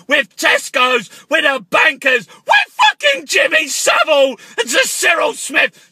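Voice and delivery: shouting conspiracy abuse down the phone; comic angry paranoid rant. Acted. Caller ranting at the Queen, comic angry shouting. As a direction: yell at the Queen like a raving caller.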